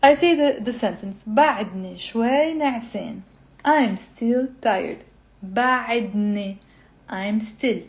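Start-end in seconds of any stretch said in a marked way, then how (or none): 1.3-3.2 measured, clearly spaced Arabic sentence; slow lesson reading. Shown as a demonstration. Teacher reading a sentence for students to follow, slow and clear. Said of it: "we're reading it slowly". 5.4-6.6 "بعدني" slowly, syllable by syllable; slow teaching pace. Shown as a demonstration. Teacher breaking down a word for students, slow. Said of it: "we're reading it slowly and we're explaining".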